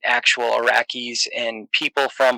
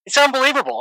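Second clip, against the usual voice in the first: exaggerated Boston accent, pitched up and rising; hammed-up Boston local telling a driving story; 5 semitones higher than usual. For a listener's request, telling a car story in a hammed-up Boston accent. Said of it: "I'll tell you a story in, in a Boston accent".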